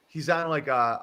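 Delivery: ordinary delivery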